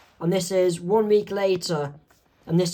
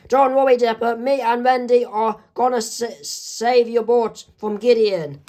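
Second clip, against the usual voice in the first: lightly voiced reassurance; 5 semitones higher than usual. Mabel reassures tied-up Dipper.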